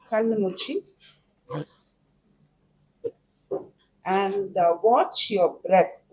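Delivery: calm, unhurried breathing guide with long pauses; guided meditation. Acted. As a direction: talk them gently into watching the breath.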